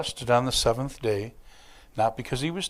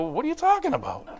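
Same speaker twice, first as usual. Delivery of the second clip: quick, higher, puzzled through laughter; laughing confused friend; 13 semitones higher, faster than usual. Retold or imitated. Rick reacting to his name used as a curse, laughing. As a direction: play a baffled friend while chuckling. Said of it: "They're gonna go".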